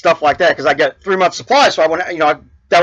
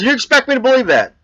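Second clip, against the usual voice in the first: mock disbelief, a little higher; upset; 5 semitones higher than usual. Hurried man doubting the old man's trick, mildly upset. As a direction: challenge him, lightly indignant. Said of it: "got upset because this guy gets his appointment".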